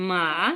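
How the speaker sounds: মা আ dipping low then rising; মা আ drawn out, dipping low; third tone. Shown as a demonstration. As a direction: dip the voice on মা আ like a Chinese third tone. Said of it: "এটা হচ্ছে ঘোড়ার Chinese".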